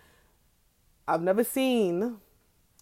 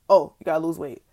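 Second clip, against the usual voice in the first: louder, scornful mimicry of the doctor's advice; mocking the doctor; 7 dB louder than usual. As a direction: throw his words back at him with contempt. Repeating doctor's advice in outrage.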